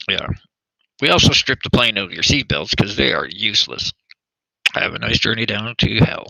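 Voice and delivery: tinny PA announcement; like over the cabin intercom; flat echoey pa page. Pretend.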